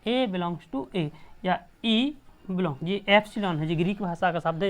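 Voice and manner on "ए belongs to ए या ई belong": slow reading aloud. Shown as a demonstration. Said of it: "इसको क्या पढ़ेंगे?".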